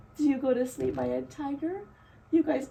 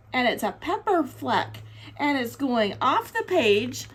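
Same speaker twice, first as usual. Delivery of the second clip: put-on reading to children. A narrator's reading. Reading picture book aloud.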